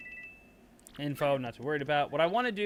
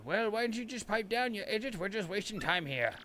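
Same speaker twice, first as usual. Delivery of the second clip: high, impatient put-down; irritated sidekick; 6 semitones higher, 3 dB quieter than usual. Acted. The partner snapping at the mayor, impatient. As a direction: tell the old man to hurry.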